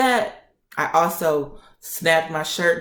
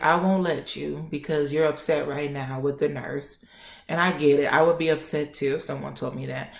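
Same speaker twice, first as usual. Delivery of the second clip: softer retold doctor voice; calm reassurance; 2 semitones lower, 4 dB quieter than usual. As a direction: reassure the patient quietly and evenly. Doctor reassures upset patient.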